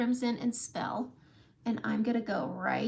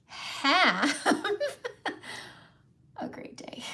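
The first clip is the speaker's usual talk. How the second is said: whispered goodbye; 8 semitones higher, much slower than usual. Real, not acted. Signing off to viewers in a whisper. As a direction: breathe the farewell out.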